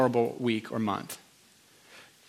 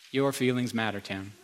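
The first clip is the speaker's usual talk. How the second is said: soft repeat; 4 semitones lower, 5 dB quieter than usual. Retold or imitated. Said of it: "That was like an I V drip".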